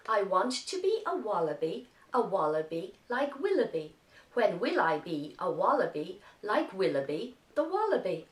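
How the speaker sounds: put-on the tongue twister run on in one flow with the children; said together. Shown as a demonstration. Teacher saying the tongue twister together with the class. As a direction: run the lines together at a steady pace. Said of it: "Now say it with me".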